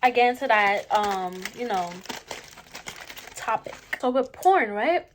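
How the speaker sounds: talking with food in mouth; words round a bite of food; chewing while talking. Real, not acted. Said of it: "Let me take a bite".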